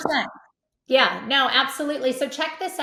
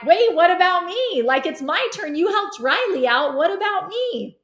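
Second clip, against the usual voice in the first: put-on higher, louder whiny kid protest; jealous kids; 6 semitones higher, 4 dB louder than usual. Younger kids demanding their turn, high whiny protest. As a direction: plead like a left-out sibling. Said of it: "the other kids are like".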